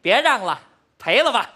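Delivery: a modest hawker's call. Acted. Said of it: "音量咱上来了". (稍微用点劲吆喝)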